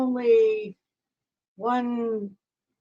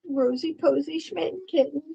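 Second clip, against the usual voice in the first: cooing pet voice, pitched up; 4 dB quieter than usual. Real, not acted. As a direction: coo the kitten's name lovingly. Cooing at the kitten.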